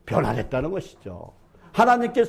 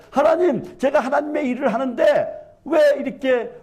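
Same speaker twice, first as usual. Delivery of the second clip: complaining to God. Retold or imitated. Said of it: "라고 항변한 적도 있어요".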